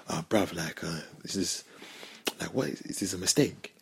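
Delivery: low, hushed doubtful question; quiet aside. Retold or imitated. Friend privately asks about talking to a girl, quiet aside. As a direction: lean in and ask quietly, unsure.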